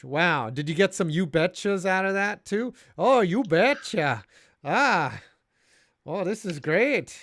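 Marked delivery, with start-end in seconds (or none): 3.0-7.2 lightly hammed-up Minnesota voice, cheery; Midwest accent. Host imitating a Wisconsin fan at the game, light Midwest accent. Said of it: "That's my Midwest impression".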